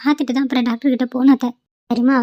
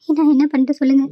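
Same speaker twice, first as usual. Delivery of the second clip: pleading through tears; crying. Acted. Daughter-in-law pleading with her aunt, crying. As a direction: beg for an answer while weeping. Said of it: "இப்படி அழுதுட்டு இருக்கே".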